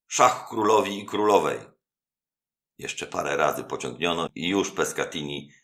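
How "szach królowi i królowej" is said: higher, louder call of check; triumphant shout. A narrator's reading. Anastazjo calls a double check on the host, higher and loud. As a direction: crow over the winning blow. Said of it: "zawołał".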